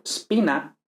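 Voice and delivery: spina starting straight on S; no E before spina; initial S cluster. Shown as a demonstration. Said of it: "no es espina".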